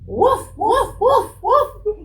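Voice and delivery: high, playful woofs; dog woof. Acted. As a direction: bark like a puppy. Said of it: "what do puppy dogs say?".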